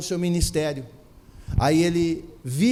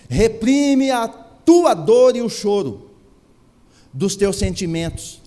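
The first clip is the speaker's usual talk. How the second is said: slow and louder, every word weighed; slow, loud, solemn recitation; slow solemn scripture reading; 4 dB louder, slower than usual. Acted. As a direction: read the verse slowly and gravely, like scripture. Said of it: "Assim declara Yahvé".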